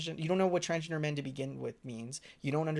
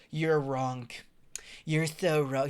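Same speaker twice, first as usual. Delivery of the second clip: imitating the debater; much slower than usual. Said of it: "He talks like that".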